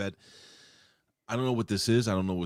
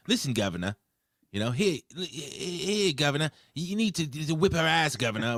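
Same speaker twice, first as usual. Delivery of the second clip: a hint of cockney, higher and louder; lightly voiced cockney geezer urging a fight; half-hearted cockney impression; cockney accent; 8 semitones higher, 3 dB louder than usual. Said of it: "should have been like".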